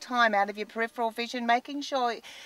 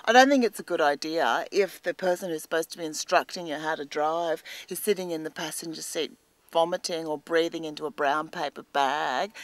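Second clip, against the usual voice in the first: normal talking voice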